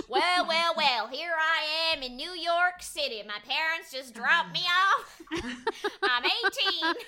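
hammed-up, slow American drawl; cartoonishly broad American newcomer voice; broad American accent. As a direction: stretch out a big showy American accent, laughing at the end. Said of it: "We just want a broad American accent".

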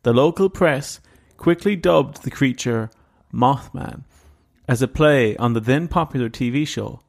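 measured storyteller read with dramatic pauses; story narration. A narrator's reading. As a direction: tell it like a creepy case file. Reads the Mothman story aloud.

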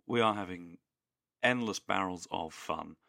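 slow, inexpressive claim of fun; sincere words in an expressionless tone; unintentionally sarcastic-sounding. Real, not acted. Co-host assures listeners it's fun, unintentionally sarcastic-sounding. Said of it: "it sounds like I'm being sarcastic".

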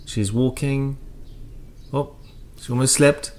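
mock-marvelling commentary, rising then hushed, with pauses; royal commentator. Commentator watching the Queen walk, mock wonder. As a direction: coo over every tiny event like TV coverage. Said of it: "royal commentators, you know, when".

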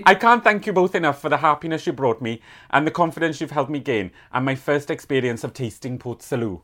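put-on Welsh letter-reading voice; Welsh accent. Reading a Welsh listener's thankful letter, in a Welsh accent. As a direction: read it aloud in a Welsh accent. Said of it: "I can do my Welsh accent".

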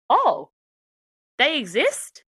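high-pitched, surprised "oh"; imitated surprise. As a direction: act taken aback, pitch jumping up. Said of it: "people just are really surprised".

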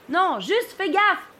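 high, slow, stretched-out warning; yelled from aloft. Acted. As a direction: draw out the warning from the masthead. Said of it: "me hurle de tout là-haut".

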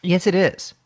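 blocked nose, nasal sound; stuffy nose. Real, not acted. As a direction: talk through a stuffed-up nose. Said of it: "My nose is a little stuffed up".

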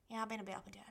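soft whispered confession; whispered admission. Retold or imitated. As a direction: half-whisper it, reluctant to admit. Quietly admitting struggles to sister.

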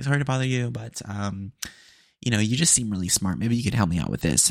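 put-on Valley Girl accent. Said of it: "She had a Valley Girl accent too".

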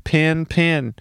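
"Pin, pin" both with the same short i; same vowel. Shown as a demonstration. Insisting pin and pen sound the same. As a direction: say "Pin, pin" without any difference. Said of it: "To me, it's the same thing".

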